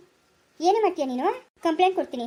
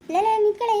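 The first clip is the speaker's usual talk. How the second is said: calling out sharply; 4 semitones higher, 3 dB louder, faster than usual. Acted. Mother-in-law calling girl back.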